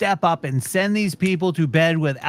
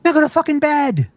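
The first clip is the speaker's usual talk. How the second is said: stern bedtime order; 8 semitones higher, 5 dB louder than usual. Acted. Telling toddlers off.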